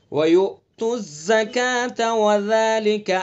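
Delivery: "زکاتا" slow with hard za, "ذالک" with soft dhal; slow, firm z then gentle dh; slow tajweed model. Shown as a demonstration. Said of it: "زا کو ذرا سختی سے پڑھیں گے".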